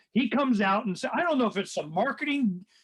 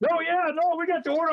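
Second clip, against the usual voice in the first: imitating her in a higher pitch; a mocking, higher-voiced take on the official; light higher-pitched parody of her insistence; 10 semitones higher, faster than usual. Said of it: "I go".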